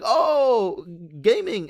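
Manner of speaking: high excited security guard realizing; squeaky thrilled airport guard. Retold or imitated. Security guard voiced in story.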